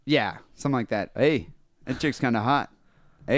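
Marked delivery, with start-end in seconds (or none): 1.2-3.4 a light Fargo-style Wisconsin accent. Shown as a demonstration. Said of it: "Just think of Fargo".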